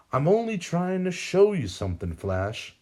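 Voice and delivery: a lightly voiced gloating old man; villain teasing the Flash, smug; villain Sam. A narrator's reading. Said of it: "he states".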